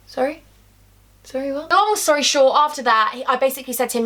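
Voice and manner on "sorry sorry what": stunned disbelief. Retold or imitated. Told he's never coming home.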